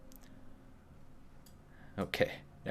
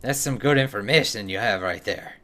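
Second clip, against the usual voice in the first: put-on dwarf with a slightly Russian accent; wobbly amateur Russian-tinged accent; a little bit Russian. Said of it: "gonna have to be a little bit Russian".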